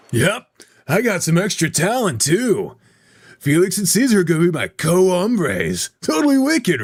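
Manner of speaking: excited, lively boast with rising pitch; cocky slangy dude. Acted. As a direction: show off like a pleased dude, peaking high. Plays boastful slangy character.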